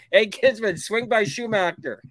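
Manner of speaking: lightly voiced taxi dispatcher; a hint of a dispatcher on the radio. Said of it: "I'll be like the taxi, uh, dispatcher".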